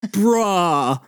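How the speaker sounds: drawn-out amazed reaction at full voice; stunned disbelief. Acted. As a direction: stretch the word in awe. Stunned, he repeats it bigger.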